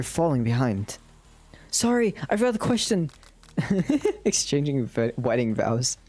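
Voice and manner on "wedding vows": hushed whisper throughout. Acted. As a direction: whisper it like a secret aside. Whispered game host aside.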